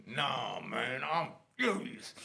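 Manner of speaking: low, slow fury through gritted teeth; seething. Retold or imitated. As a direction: hold the rage down, re-enacting it. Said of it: "my teeth gritting".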